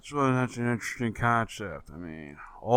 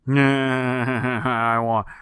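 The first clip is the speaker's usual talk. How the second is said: laughing eagerly; 4 dB louder than usual. Real, not acted. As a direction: laugh breaking into the words. Eager laugh at gory description.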